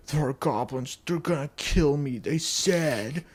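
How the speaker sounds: rising, slightly whiny mock plea; lightly voiced frightened wife. Wife insisting goblins will kill her, mildly hammed-up fear. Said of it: "eventually she's like".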